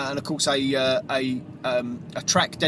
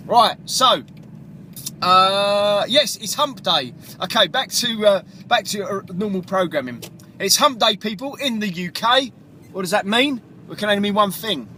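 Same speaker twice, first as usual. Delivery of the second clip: excited hype; 5 semitones higher than usual. Real, not acted. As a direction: pump up the listeners for hump day. DJ hypes up hump day.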